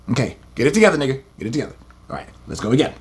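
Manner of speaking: low, soft self-talk to settle down; muttering to himself. Real, not acted. Preacher settling himself before reading on, soft and low. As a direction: talk yourself back to calm, quietly. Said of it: "I gotta calm down".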